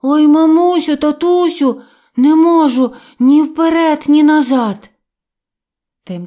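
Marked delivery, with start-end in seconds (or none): 0.0-4.9 much higher and louder, howling all through; full-throated stuck-bear howl; desperate wailing. Acted. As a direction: bawl for both parents, totally stuck. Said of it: "він зарепетував".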